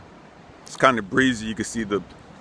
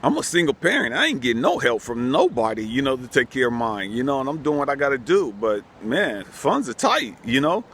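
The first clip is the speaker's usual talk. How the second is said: worked-up inner rant, higher pitched; heated and scared; 4 semitones higher than usual. Retold or imitated. Single mom panicking over the damage, heated retold rant. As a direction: vent the panic of a broke single parent. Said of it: "heated because I'm, like, scared".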